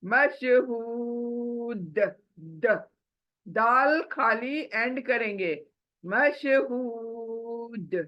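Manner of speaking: मशहूद very slow, with a long ू and a bouncing final d; tajweed stop; drawn-out stop. Shown as a demonstration. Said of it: "दाल को सिर्फ साकिन बना देंगे".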